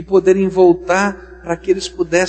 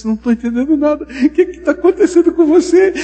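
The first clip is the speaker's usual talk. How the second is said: confused bystander; 10 semitones higher, 6 dB louder, faster than usual. Acted.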